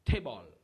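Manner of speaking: table said the English way, "tebol"; saying table. Shown as a demonstration. Teacher demonstrating how to say table. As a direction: sound out the word table carefully. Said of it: "si w ap di".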